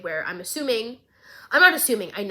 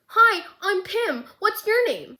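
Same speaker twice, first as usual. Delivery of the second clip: goofy; 9 semitones higher, slower than usual. Retold or imitated. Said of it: "this man goes".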